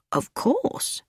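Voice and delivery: put-on high old lady. A narrator's reading. Miss Marple soothing Edgar.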